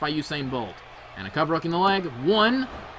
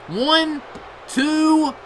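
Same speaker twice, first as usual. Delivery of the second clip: loud, higher shouted pin count; count yell; 10 semitones higher, 5 dB louder than usual. Real, not acted. Commentator yelling the near-fall count. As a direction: belt out the count as it happens.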